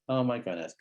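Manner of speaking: a quiet, falling oh my goodness. Shown as a demonstration. Therapist softening toward the hurt kid, quietly. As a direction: let oh my goodness drop quietly. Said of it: "ready for a bit of vulnerability".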